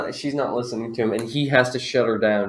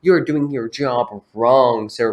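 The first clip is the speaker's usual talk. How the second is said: angry customer rant; 6 semitones higher, 5 dB louder than usual. Acted. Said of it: "She's just going off on him".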